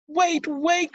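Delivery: high, loud desperate call; crying out. A narrator's reading. Prince shouting after the fleeing girl, high and loud. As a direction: call after her as she runs. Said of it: "cried the prince".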